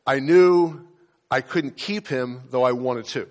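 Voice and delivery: near tears, reading her letter; emotional. Real, not acted. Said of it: "I get emotional".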